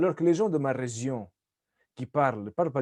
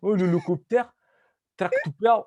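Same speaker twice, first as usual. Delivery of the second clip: fake Portuguese accent; 3 semitones higher, 3 dB louder than usual. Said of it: "C'est comme Djal qui dit".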